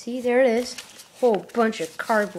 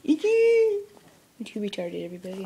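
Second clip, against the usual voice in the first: mock whine. Self-mocking repeat.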